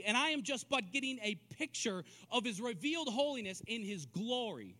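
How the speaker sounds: energetic, emphatic sermon delivery; earnest preaching. Real, not acted. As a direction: press each phrase home with conviction. Preaches glory as revealed holiness.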